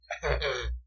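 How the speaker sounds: short, soft odd laugh; weird laugh. Real, not acted. Co-host reacting to a joke with a weird, soft laugh. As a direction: let out a quiet, strange little chuckle. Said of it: "That was a weird laugh from you".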